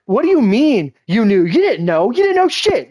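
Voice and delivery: loud, climbing mock outburst; retold indignant disbelief. Brother snapping out of crying at being known, mock indignant outburst. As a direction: imitate stunned protest, pitch shooting up. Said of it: "he kinda snapped out of the crying thing".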